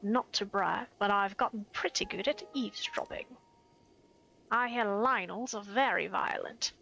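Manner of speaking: a hint of a gossiping eavesdropper character; NPC voice. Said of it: "Just trying to give him some kind of voice".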